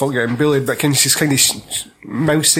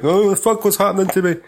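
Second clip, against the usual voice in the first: imitating panic; 4 semitones higher than usual. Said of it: "it comes out a bit more panicky".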